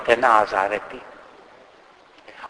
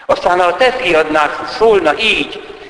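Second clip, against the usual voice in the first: ordinary delivery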